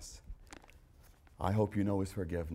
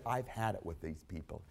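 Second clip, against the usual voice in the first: a mock fed-up Jesus going from mutter to shout; imagined Jesus fed up; 3 semitones higher, 16 dB louder than usual. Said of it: "he said".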